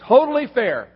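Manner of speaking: fast, grumbling about fairness; mock the kids keeping score; lightly voiced complaining kids. Preacher lightly voicing his kids grumbling about chores, a touch whiny.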